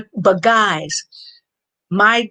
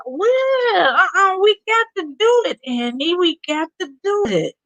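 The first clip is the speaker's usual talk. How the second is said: high playful insistence; 11 semitones higher than usual. Real, not acted.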